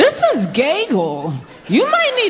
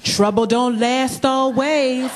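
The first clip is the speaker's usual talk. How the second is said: put-on slow, solemn old preacher woman; Sojourner Truth voice; slower than usual. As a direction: drag it out like an old sage. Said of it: "Why do you sound like Sojourner Truth".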